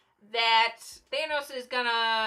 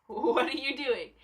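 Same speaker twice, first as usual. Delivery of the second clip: "What are you doing?" through a laugh; repeating the question to the fans, laughing; laughing disbelief. Retold or imitated. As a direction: laugh at the fans' panic. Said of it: "I'm just sitting here like".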